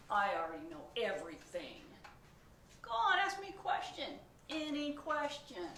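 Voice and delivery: high, loud complaining pigeon; whiny pigeon. Acted. Pigeon argues about school with the reader, whiny. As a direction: boast and whine like a cheeky kid.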